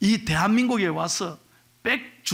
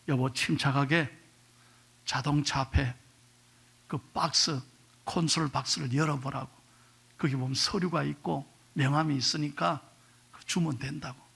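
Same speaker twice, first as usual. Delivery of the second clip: kind husband; 5 semitones lower, 5 dB quieter than usual. Retold or imitated. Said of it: "생각 외로 친절하게".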